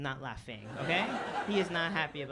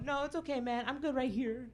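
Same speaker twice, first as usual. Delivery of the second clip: polite brush-off; 7 semitones higher than usual. Retold or imitated. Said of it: "I go".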